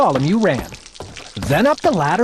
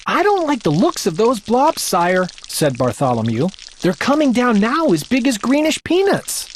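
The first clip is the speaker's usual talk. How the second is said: higher, uneasy page voice; worried boy; 5 semitones higher than usual. Acted. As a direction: voice a doubtful page. Page doubts the green blobs.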